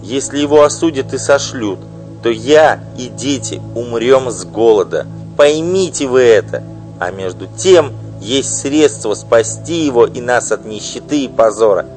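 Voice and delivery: loud, high, bitter tirade; furious wife. Acted. Wife denouncing her husband's mistress, furious loud outburst. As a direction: spit out the insults at her rival.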